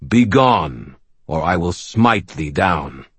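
slow, stern resonant warning; a hint of a stern giant, hardened; hardened deep voice. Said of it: "The deep voice hardened".

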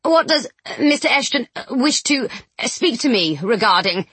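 panting, halting between words; breathless, stumbling over words; out of breath. Acted. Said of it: "panted after Charlotte".

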